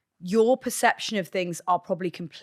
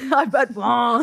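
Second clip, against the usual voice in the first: put-on Spanish accent; 3 semitones higher, 4 dB louder, slower than usual. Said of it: "Go back to the Spanish accent there".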